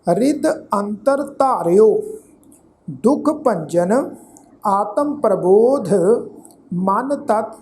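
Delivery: slow, measured verse reading with drawn vowels; scripture recitation. Shown as a demonstration. Teacher recites sacred verse to congregation, measured recitation. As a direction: recite phrase by phrase, pausing between.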